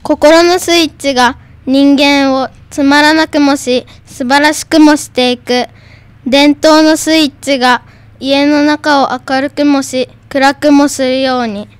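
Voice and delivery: even, measured school recitation; reading aloud. Shown as a demonstration. Second pupil takes up the textbook poem, reading aloud. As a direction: recite the poem with a pause after each phrase. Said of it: "音読のコーナー".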